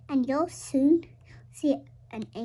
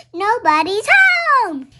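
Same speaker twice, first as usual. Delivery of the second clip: bird's thought; 8 semitones higher, 11 dB louder than usual. Acted. Bird thinks, fooled by bubbles.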